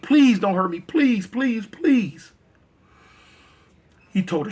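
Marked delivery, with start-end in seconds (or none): 0.0-2.3 pleading, rising higher and louder; begging. Acted. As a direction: beg desperately for mercy. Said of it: "she begged and pleaded".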